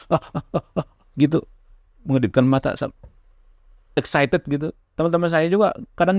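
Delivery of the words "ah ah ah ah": light imitation of bullies mimicking a stammer; half-hearted mocking stammer sounds; mock stutter. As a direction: repeat ah like teasing kids copying a stutter. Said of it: "sering diikutin kalau saya ngomong".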